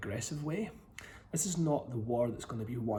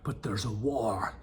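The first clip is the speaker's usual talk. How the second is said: whispering; 3 semitones lower, slower than usual. Acted. Whispered ominous announcement.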